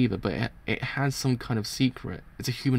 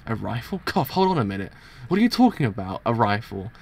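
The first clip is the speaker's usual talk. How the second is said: rising, incredulous questioning; acted alarm, pitch climbing; startled disbelief. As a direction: react as if you can't believe it. Character reacts to rifle news.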